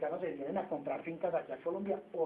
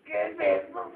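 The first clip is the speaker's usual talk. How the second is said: clueless reply; 9 semitones lower, 8 dB louder, slower than usual. Retold or imitated. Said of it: "Usted sabe logística".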